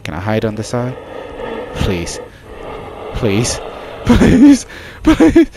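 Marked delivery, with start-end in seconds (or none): 4.0-5.5 much higher, louder whiny plea; mock begging. Real, not acted. Player begging the monster, high whiny mock plea. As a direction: beg like your life depends on it.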